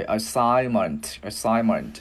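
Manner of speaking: "assignment" built up syllable by syllable, slowly; đọc chậm "assignment"; slow, careful "assignment". Shown as a demonstration. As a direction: spell out "assignment" slowly for learners. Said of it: "gắn vào assign".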